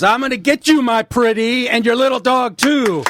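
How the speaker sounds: wicked witch voice. Acted. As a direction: mouth full, playing the Wicked Witch. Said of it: "Willem Dafoe, Antichrist".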